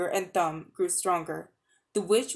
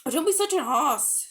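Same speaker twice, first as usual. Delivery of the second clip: scornful; 6 semitones higher than usual. A narrator's reading. Polly scolding Diggory, high and scornful. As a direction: scold him impatiently. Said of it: "said Polly".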